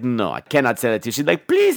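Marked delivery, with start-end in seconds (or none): 0.0-1.1 low put-on man's voice; mock-grave refusal, pitched down; antique shopkeeper. Mimicking the shopkeeper. 1.5-1.8 put-on high, begging girl voice; imitated pleading, pitched up; mock whining. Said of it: "stop whining".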